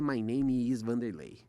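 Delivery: slow English with a Brazilian accent; the wrong way, said slowly with a Brazilian accent. Shown as a demonstration. Showing the interviewer the accent to avoid, slowly. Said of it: "mas não pode ser".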